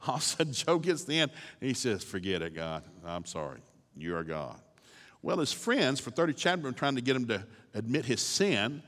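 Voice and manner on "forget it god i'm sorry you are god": humbled surrender. Acted. Job surrendering to God.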